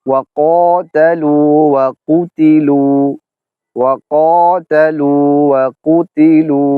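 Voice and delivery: ক্বাতালু drawn out with a heavy qaf; slow recitation. Shown as a demonstration. Teacher reciting the example twice for students. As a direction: recite slowly, stretching each syllable. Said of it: "তো আমরা উদাহরণ দিব".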